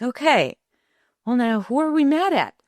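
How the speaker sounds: put-on mother joining her child's anger, high and playful; playful conspiring. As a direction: play along like a fellow kid. Mother playing along with daughter.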